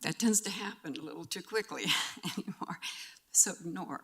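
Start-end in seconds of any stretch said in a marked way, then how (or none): 0.0-2.8 fast whisper, half laughing through tears; choked laugh-whisper; teary. Real, not acted. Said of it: "I do not like crying".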